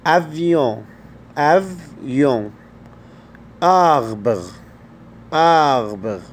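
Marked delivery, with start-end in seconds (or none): 3.6-6.2 آربر with a French throaty R, like Arabic ghain; آربر with a guttural French R; French R in arbre. Shown as a demonstration. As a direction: say آربر with the R rolled back in the throat like غ. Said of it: "غين أو زي الراء في اللغة العربية".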